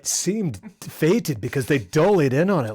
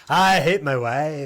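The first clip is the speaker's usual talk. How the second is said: flat mock quote; slower than usual. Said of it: "Goodness gracious".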